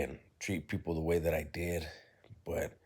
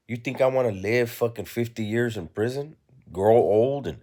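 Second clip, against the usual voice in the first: raised pitch, indignant retort; defiant; 5 semitones higher, 3 dB louder than usual. Retold or imitated. Young defendant retelling his answer to his attorney, defiant. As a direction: retell it as a scornful challenge, pitched up.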